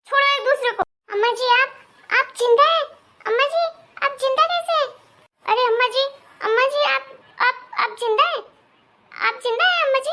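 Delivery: high, stunned cries of disbelief; wife finding her mother-in-law alive, high and stunned; shocked disbelief. Acted. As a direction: gasp it out as if you're seeing a ghost. Mother-in-law thought dead appears.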